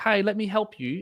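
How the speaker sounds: high, slow, sweet, all-innocent helpful voice. Retelling how she offered the kid help: mock innocent tone. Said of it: "all innocently".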